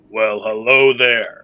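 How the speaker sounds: deep, low voice. Narrating to players a voice heard inside their minds, loud booming voice. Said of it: "you hear a loud booming voice that says".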